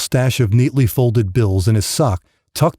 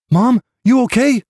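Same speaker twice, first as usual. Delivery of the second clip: put-on higher, small boy's worried question; young boy; 11 semitones higher than usual. Boy finding his mother on the couch, small worried voice. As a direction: ask like an eight-year-old child. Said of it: "he said".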